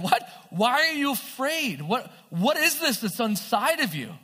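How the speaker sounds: imitated exasperated questioning; incredulous rebuke. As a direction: challenge them in retold disbelief. Jesus voiced rebuking the disciples.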